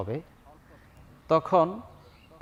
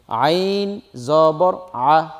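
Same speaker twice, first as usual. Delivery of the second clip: very slow, drawn-out chanted spelling; slow spelling recitation; 3 dB louder, much slower than usual. Shown as a demonstration. Teacher spelling a Quran word, slow chant. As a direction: stretch every sound out evenly. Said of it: "বানানটা এইভাবে বলে দিব".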